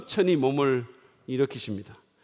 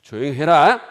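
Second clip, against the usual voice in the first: firm, loud command; Jesus commanding the storm, loud and firm; commanding rebuke; 3 semitones lower, 8 dB louder, slower than usual. Acted. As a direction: order the sea to be still. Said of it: "바람과 바다를 꾸짖으셨어요".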